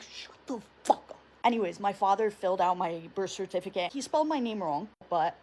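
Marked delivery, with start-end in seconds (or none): 0.0-1.2 voiceless angry hiss; hissed retort. Retold or imitated. Mother snapping at father in the delivery room, hissed. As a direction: spit it out under the breath. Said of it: "She's like".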